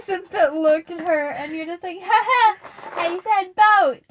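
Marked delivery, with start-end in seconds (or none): 2.0-4.0 put-on proud kid. Player mimics kid's proud reply.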